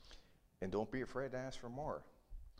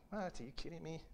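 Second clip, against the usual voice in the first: shocked beggar; 8 semitones higher, 6 dB quieter than usual. Acted. Beggar's shocked reply voiced.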